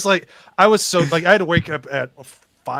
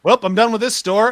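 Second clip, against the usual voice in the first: higher, laughing through it; 6 semitones higher, 4 dB louder than usual. Retold or imitated. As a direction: chuckle the line out.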